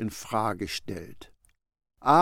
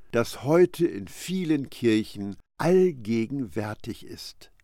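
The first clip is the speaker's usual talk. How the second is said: normal talking voice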